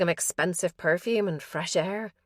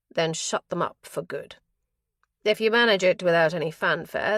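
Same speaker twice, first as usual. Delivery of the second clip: a hint of a menacing crime boss, a bit louder; lightly voiced cold boss; 3 dB louder than usual. King ordering his men on the phone, lightly voiced and firm. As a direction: give the orders coolly, pressing harder.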